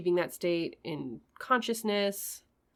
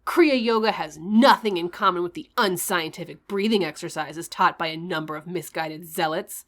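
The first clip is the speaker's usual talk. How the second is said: a slightly louder, lightly unhinged reading voice; hammed-up crazed preacher reading aloud; mad voice; 5 dB louder than usual. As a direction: read it like a mildly mad guru. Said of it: "I'm just gonna do a mad voice".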